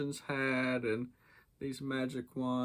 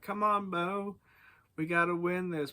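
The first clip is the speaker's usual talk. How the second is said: eager pleading; 5 semitones higher than usual. Retold or imitated. Peter begging Bo for bike.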